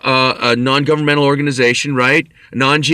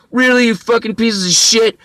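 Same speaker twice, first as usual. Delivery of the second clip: higher-pitched indignant retort; retold outrage, pitched up; indignant outburst; 8 semitones higher than usual. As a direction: throw it at them in disbelief. Outburst at those refusing treatment.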